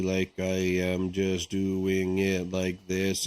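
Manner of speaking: slow, even robot-like reading; monotone robot read; robotic reading. Shown as a demonstration. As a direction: read it word by word like a machine. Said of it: "very robot-y".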